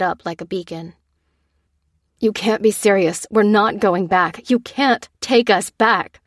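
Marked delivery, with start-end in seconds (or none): 2.2-6.2 urgent protest, pushing back. Acted. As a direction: object firmly, a little raised. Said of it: "protested the father".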